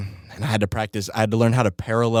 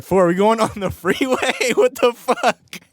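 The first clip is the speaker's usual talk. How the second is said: mock panic; 13 semitones higher, 4 dB louder than usual. Retelling panic at the freeway turn.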